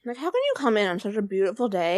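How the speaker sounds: talking with a mouthful; words round a bite of food; mouth full. Real, not acted. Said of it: "talk with your mouth full".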